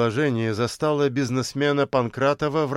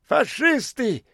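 зло; 12 semitones higher, slower than usual. A narrator's reading. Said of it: "зло кивнула маленькая бомжиха".

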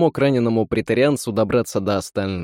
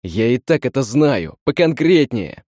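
blurted out; 2 semitones higher, 3 dB louder than usual. Acted. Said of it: "выпалил тот".

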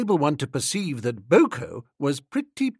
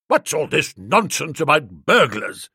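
stirred indignation; 3 dB louder than usual. Acted. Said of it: "plainly stirred".

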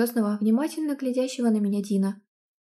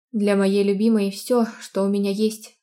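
pleased rumble; 5 dB louder than usual. Acted. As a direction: rumble it proudly. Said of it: "довольно пророкотал Дин".

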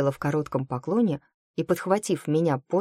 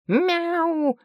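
protesting cat yowl; 13 semitones higher than usual. A narrator's reading. Cat yowls in protest at the closing door. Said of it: "протестующе взвыл кот".

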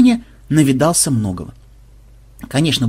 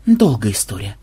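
weary sigh; 5 semitones lower than usual. Acted. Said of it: "вздохнул программист".

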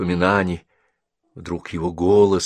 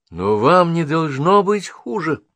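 higher, eager exclamation; exclaiming; 11 semitones higher, 8 dB louder, slower than usual. A narrator's reading. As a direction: protest brightly. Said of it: "воскликнула Генриетта".

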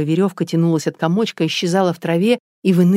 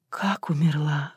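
softer, slow whispered disbelief; stunned whisper; 6 dB quieter, slower than usual. Acted. Natasha learning the woman died, stunned whisper. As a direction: barely get the words out. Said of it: "хотела спросить Наташа".

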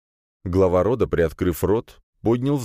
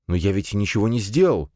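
higher, mildly alarmed protest; agitated; 4 semitones higher than usual. A narrator's reading. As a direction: plead innocence with some agitation. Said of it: "взволнованно произнёс Фирс". (взволнованно)

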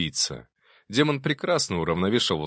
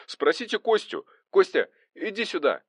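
very high, eager call; high-pitched holler; 11 semitones higher than usual. A narrator's reading. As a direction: summon a friend from across the yard. Calling his comrade to the phone.

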